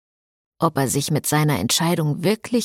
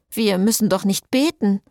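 worried; 4 semitones higher than usual. Acted. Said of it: "fragte Lynette besorgt".

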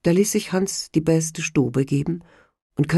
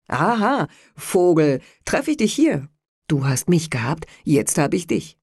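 gloating. Acted. Soldat gloats over ensign.

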